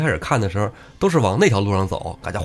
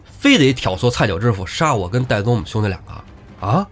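acted anger. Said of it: "就那表情才能说这番话".

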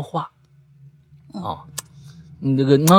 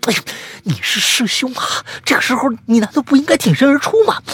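尖高快速的抱怨; 急吼吼地把责任推回去; 小白急着反驳; 6 dB louder, faster than usual. Acted. 小白反推师兄. (小白尖声快语反驳师兄该挺身而出)

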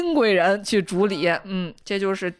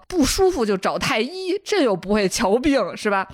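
mildly angry emperor; 3 semitones higher than usual. Acted. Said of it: "皇上就很生气的说". (皇上不耐烦地打发，带点怒气)

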